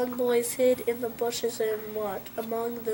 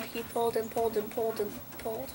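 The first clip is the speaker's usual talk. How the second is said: fast; 5 dB quieter, much faster than usual. A narrator's reading. Straining to pull sword.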